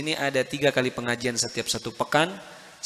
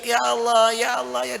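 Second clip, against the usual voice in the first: high, loud cry of "Ya Allah"; mock anguished scream of "Ya Allah"; retold screaming; 10 semitones higher, 4 dB louder than usual. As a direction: cry out to God in torment, raised high. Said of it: "sambil dia teriak".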